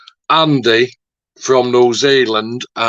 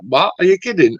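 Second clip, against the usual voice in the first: high incredulous "what, are you kidding"; retold disbelief; 6 semitones higher than usual. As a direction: replay the shock of hearing the news, pitched up. Retelling his shock at mate's move.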